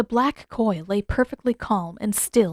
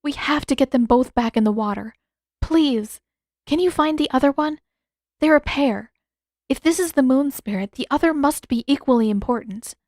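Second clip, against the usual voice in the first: put-on higher young woman's voice, pleading and searching; young princess voice pressing for more; Yue, urgent; 5 semitones higher, 3 dB louder than usual. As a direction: reach up high, anxious to find a way.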